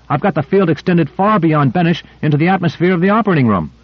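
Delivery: high, eager rush of words; thrilled like a kid on a date; excited. Acted. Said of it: "gay and excited as a youngster".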